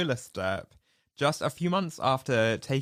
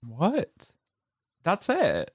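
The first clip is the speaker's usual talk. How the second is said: shocked disbelief; 7 semitones higher, much slower than usual. Real, not acted. Shocked at low net worth.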